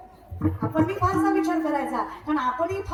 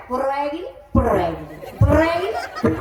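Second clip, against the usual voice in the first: put-on old folks grumbling. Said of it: "नुसती म्हातारी म्हणतात".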